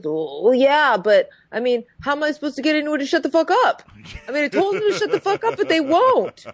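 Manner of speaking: mock Chad. Imitating Chad defending why he punches people. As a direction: rattle it off like it's obvious. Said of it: "his only answer is".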